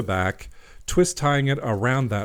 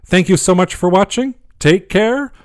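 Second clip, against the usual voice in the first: bubbly sign-off; 8 semitones higher, 8 dB louder, slower than usual. Real, not acted. Cheerful sign-off.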